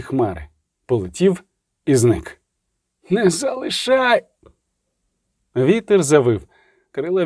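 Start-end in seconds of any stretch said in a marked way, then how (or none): 3.1-4.2 high, slow, plaintive woman's voice; pleading woman. Acted. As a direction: beg not to be left alone, voice pitched high and drawn out. Луна благання жінки. (жалібний високий жіночий голос, повільно)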